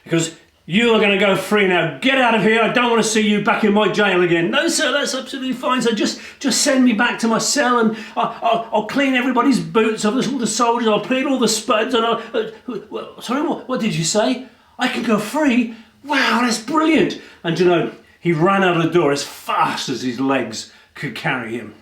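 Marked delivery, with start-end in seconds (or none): 0.0-4.5 stern governor. Acted. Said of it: "the governor". 4.5-17.2 high, eager and fast; groveling prisoner. Acted. Barabbas groveling then amazed.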